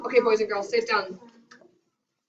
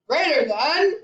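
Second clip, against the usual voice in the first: giant voice; 4 semitones higher than usual. Shown as a demonstration. Teacher leads children in the saying, playful giant voice. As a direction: call it out a bit like a giant. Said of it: "say it like a giant".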